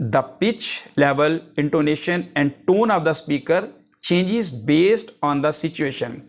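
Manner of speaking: reading a definition out slowly, word by word; slow dictation. Acted. Teacher dictating a definition to the class, slow and deliberate. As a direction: dictate it so students can write it down.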